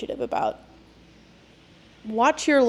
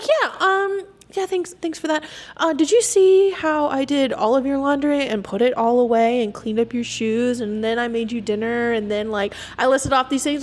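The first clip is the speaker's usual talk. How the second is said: sarcastic listing; 2 semitones higher than usual. Retold or imitated. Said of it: "I was like".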